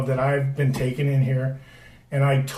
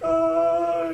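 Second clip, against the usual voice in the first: put-on stunned kid. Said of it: "I was like".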